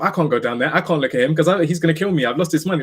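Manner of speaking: mock panicked self-talk; retold panic. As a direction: replay the panic, worried and rushed. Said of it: "Like, I'm panicking".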